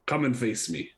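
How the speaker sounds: slow, heroic challenge called out; calling out a challenge. Acted. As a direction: call down to him, proud and slow. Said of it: "I will call down to, um, Castolfo and say".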